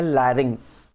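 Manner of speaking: लैरिंक्स said with an opening L sound; pronunciation demo. Shown as a demonstration. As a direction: start लैरिंक्स on L, not F. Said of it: "उसको pronounce करते हैं".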